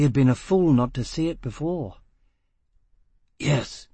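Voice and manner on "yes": croaked. Acted. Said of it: "he croaked".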